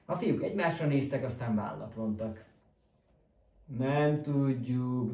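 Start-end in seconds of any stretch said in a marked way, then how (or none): 3.7-5.1 slow, dragged grumbling reply; grumbling in unison. Acted. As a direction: mumble it together, slowly. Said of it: "dörmögték mindannyian".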